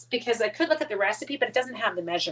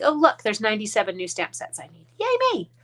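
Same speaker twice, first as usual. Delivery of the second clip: mock excitement; 3 dB louder than usual. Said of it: "I'm like".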